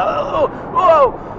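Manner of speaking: long, high, loud cry as the wave hits; startled whoa. Acted. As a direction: yell as the boat tips. Waves throw him.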